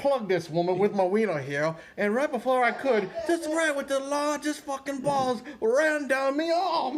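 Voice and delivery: high, building Cockney rant; hammed-up Cockney storyteller; mock Cockney accent. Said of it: "like, a Cockney accent".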